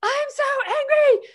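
high, loud near-crying shout; retold angry shout. Mom shouting before slamming the door, high and loud. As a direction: yell it as you storm out the door. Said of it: "I was like".

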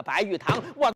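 a sudden high, fast battle cry; raising a sabre against his sworn brother, yelling; furious shout. Acted. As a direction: roar it as the blade comes down. Xu Qing raises his sabre.

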